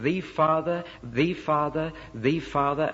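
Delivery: THE said as "thee" before each "Father"; deliberate "thee Father", repeated to make the point; pointed repetition. Retold or imitated. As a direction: stress THE as "thee" in every "the Father". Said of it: "he keeps saying".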